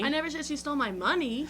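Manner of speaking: "money" punched at the end; stress on money. Shown as a demonstration. Host demonstrating the word "money" stressed to her co-host. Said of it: "depending on the word you emphasize".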